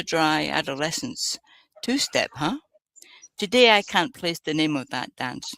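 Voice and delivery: measured poetry recital; poem reading. Acted. Podcast guest reading a poem to the hosts, measured recital. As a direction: recite the verse with a light touch.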